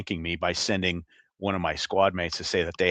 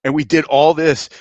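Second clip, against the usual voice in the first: laughing; 7 semitones higher, 8 dB louder than usual. Retold or imitated. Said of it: "He goes".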